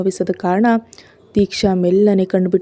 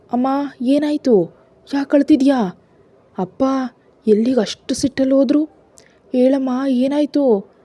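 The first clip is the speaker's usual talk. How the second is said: put-on worried young daughter; 6 semitones higher than usual. Daughter Ishani asks crying mother.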